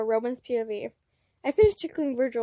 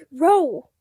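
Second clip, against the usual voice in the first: loud embarrassed protest; embarrassed yelp; 3 semitones higher, 11 dB louder than usual. Acted. Virgil, flustered by the compliment, yelps at Roman loudly. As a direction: squeal his name in embarrassment. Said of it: "as he pushes me back".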